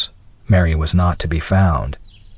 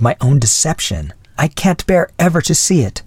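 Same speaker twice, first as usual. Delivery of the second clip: higher-pitched, earnest wife; confessing wife; 5 semitones higher than usual. Acted. Wife explaining her disguise to husband, higher earnest voice. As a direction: pour out the confession as his wife.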